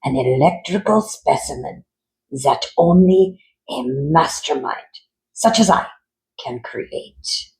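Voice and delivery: lightly voiced mad doctor, rising with pride; a hint of a gloating villain; mad scientist boasting.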